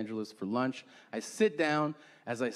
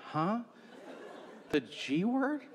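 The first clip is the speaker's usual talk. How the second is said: higher, questioning rise in mock confusion; baffled echo; 6 semitones higher, 6 dB quieter, slower than usual. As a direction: echo it back as a puzzled question. Acting out his baffled reply.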